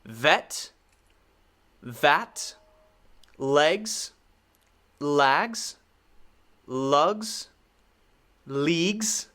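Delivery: minimal-pair drill, one isolated word at a time; careful teacher's word list with long gaps; contrasting vowels. Shown as a demonstration. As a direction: say each word alone with rising tune, dropping on blunder. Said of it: "just the vowels".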